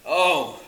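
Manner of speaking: demonstrated anguished cry. Shown as a demonstration. Preacher showing what woe means, an anguished cry. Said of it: "A cry of anguish, distress".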